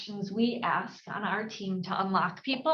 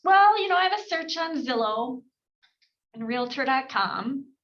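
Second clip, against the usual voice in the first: mock seller; 3 semitones higher, 4 dB louder than usual. Seller voiced in role-play.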